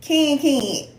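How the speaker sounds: Ken Ken with the vowel of can, falling. Shown as a demonstration. Correcting a viewer, repeats Ken Ken like can. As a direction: land Ken Ken like the word can. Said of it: "like C A N".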